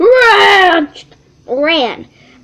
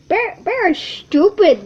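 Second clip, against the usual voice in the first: teasing; 6 semitones higher than usual. Acted. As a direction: tease the bear mockingly. Squirrel teasing bear.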